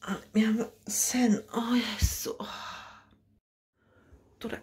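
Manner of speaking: whispered on waking, half asleep; sleepy whisper. Acted. Just waking from a dream, to herself, whispered. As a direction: breathe it out, still in bed.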